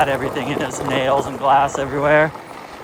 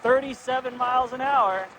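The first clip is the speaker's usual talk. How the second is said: excited; 8 semitones higher than usual. Real, not acted. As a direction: ride the rush, laughing. Full throttle at 37 mph.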